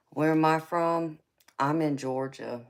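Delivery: laughing. Real, not acted. Laughing at a viewer's question.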